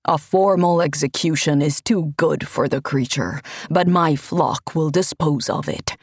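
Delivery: a pious man playing to the crowd, lightly voiced; Ivini the priest. Ivini condemns Dante.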